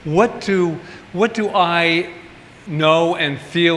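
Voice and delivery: slowing to a thoughtful, searching ask; unhurried, searching self-question; slow inward question. Retold or imitated. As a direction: ask yourself gently and slowly. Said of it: "I said".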